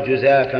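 جزافا with i: jizafan; vowel i. Shown as a demonstration. Teacher showing students the kasra reading, jizafan. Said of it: "بالكسر".

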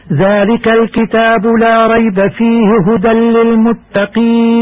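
Quran recitation. Shown as a demonstration. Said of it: "كيف تقف في الآية الكريمة".

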